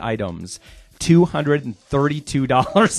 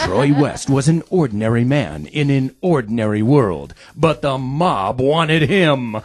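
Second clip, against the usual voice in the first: movie trailer voice. Acted. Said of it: "I got one for Trevor".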